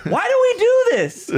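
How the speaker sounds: high laughing whine; laughing exasperation. Real, not acted. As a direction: laugh through the question.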